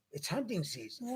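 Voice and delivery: hushed whisper for the reveal; whispered punchline. Real, not acted. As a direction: drop to a breathy whisper. Dramatic reveal of hunter.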